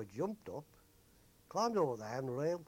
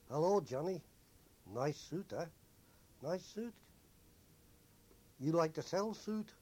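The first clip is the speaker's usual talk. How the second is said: higher, wheedling pidgin English; street hawker; 4 semitones higher, 3 dB louder than usual. Retold or imitated. Young hawkers pestering sailors for suits, wheedling. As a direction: coax the sailor into selling.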